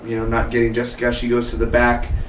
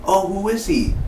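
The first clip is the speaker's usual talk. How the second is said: eager whispered urging; 7 semitones higher, 3 dB quieter than usual. Retold or imitated. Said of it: "I'm like".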